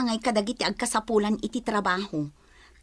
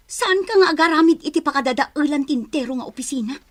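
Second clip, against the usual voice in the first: heated quarrel; 4 semitones higher, 4 dB louder than usual. Acted. Couple quarrel about the office.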